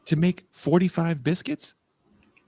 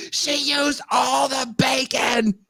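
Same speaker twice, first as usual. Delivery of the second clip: retold yell; 4 semitones higher than usual. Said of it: "I was yelling at the screen".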